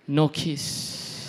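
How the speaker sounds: understated, brief refusal; plain refusal. Retold or imitated. Grocery packer turning down mom's kiss, understated refusal.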